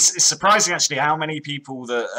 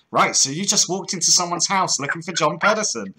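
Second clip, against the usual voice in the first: higher, sceptical playback of an alibi; mock incredulous questioning; 4 semitones higher, 4 dB louder than usual. Host playing the questioner of a caught man, incredulous. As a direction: repeat the excuse back in mock disbelief. Acted sceptical reply to excuse.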